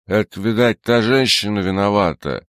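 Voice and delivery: put-on thick drunken slur, barely moving the tongue; drunk slurring. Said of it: "еле ворочая языком".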